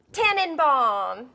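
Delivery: "Tannenbaum." said slowly and carefully, a try at German; German word. Shown as a demonstration. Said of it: "I'm probably not saying it with the right accent".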